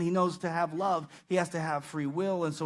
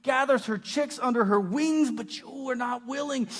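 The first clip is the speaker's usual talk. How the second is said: higher-pitched, pleading lament; pleading cry; 6 semitones higher than usual. Retold or imitated. Jesus longing to gather Jerusalem, pleading. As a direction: cry out in appeal, voice lifted. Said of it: "Jesus is crying out, with, pleading".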